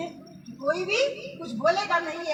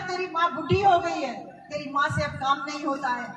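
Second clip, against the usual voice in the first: tearful plea. Retold or imitated. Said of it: "रोते रोते कहती है".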